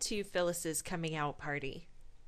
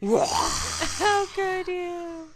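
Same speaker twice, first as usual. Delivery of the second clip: much louder, higher monster shout; monster roar; 5 semitones higher, 17 dB louder, slower than usual. Pretend. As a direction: roar like a raging kaiju. Paige Zilla roaring in rage.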